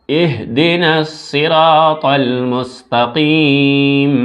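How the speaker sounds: slow, drawn-out recitation; slow melodic tilawat. Shown as a demonstration. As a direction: chant the verse slowly. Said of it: "একসঙ্গে পড়ছি দুটি আয়াত".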